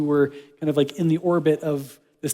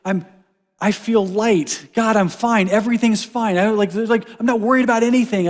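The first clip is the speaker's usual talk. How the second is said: fake fine; 5 semitones higher, 3 dB louder than usual. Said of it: "You don't have to be like".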